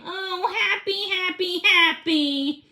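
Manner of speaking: bubbling over with happiness; giddy delight; overjoyed. A narrator's reading. Dog's joy narrated.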